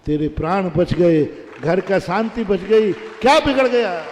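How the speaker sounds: pleading her case with feeling; mother's loud, heartfelt reasoning; earnest explanation. Acted. Mother explains to daughter-in-law.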